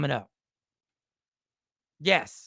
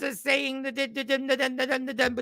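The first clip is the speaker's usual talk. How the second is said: put-on failed Jamaican accent; 5 semitones higher, 4 dB quieter than usual. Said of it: "my Jamaican always turns into an Indian person".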